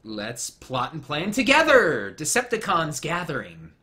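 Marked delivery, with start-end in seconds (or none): 0.0-2.2 mock villain scheming. Mock Decepticon villain line.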